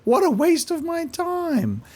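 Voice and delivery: high, slow drawn-out complaint; mock disgusted hero. Gamer mocking the hero's disappointment, slow and high. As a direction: sound fed up with the whole job.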